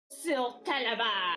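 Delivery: loud, put-on grand character announcement; Sir Talavar. Player imagines the character introducing himself, loud put-on voice. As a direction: declare the name loudly in character. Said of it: "he could also be, like".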